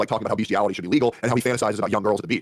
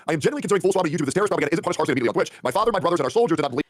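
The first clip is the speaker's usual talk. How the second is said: reading tweet; 6 semitones higher than usual. Retold or imitated. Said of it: "the tweet says".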